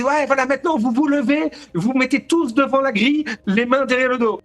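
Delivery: aboie les ordres aux détenus, voix haute; ordre crié. Retold or imitated. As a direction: commande sèchement comme un flic de garde. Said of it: "il commence à gueuler". (flic qui crie ses ordres aux détenus, ton haut)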